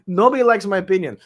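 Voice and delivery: repeated with a laugh. Real, not acted.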